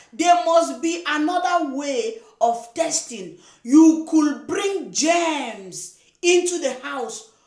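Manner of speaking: a fed-up scold shouting slow warnings. Real, not acted. Scolding viewer about hand in toilet.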